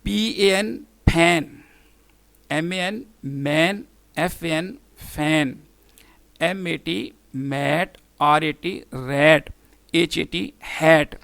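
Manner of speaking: each word spelled, then sounded with short A, like मैट; short A demo. Shown as a demonstration. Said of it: "इसकी sound कैसे pronounce होती है".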